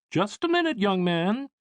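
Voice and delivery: very high, motherly and cautioning; fussy mother. Acted. Mother halting her son before he explores, high and worried. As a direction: stop him with a mother's worry.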